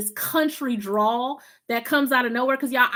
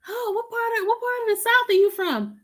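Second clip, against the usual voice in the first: higher, lightly mimicked curious caller; imitating a customer; 10 semitones higher than usual. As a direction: play the surprised customer asking. Quoting phone customers.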